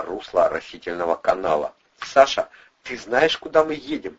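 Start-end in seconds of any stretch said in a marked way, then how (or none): 2.0-4.2 loud, high shouted question; shouting out. A narrator's reading. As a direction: shout it over the noise. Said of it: "выкрикнул Андрей".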